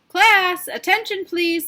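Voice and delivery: loud, high call for attention; calling class to order. Acted. Principal calling the busy class to attention, loud. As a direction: cut through the room.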